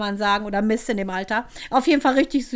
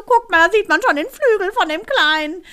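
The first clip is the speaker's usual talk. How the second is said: high, louder imitated child voice; lifted, sing-out voice of a retold child; Mael; 7 semitones higher, 5 dB louder than usual. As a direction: mimic an excited kid pointing something out. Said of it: "na Mael so".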